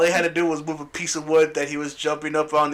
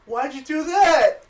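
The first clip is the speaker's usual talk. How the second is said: mock Magneto; 10 semitones higher, 4 dB louder, slower than usual. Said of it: "And he's like".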